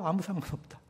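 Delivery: soft, falling echo of Paul's words; quiet repeat. Retold or imitated. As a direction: let 아무 상관없다 fall away softly. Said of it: "바울이 뭐라 그래요?".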